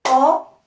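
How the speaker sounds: "Enveloppe" split en, ve, loppe, long gaps between; loud, high start, each syllable of "Enveloppe" standing alone. Shown as a demonstration. Teacher repeating for children to count, syllable by syllable. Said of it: "Je répète".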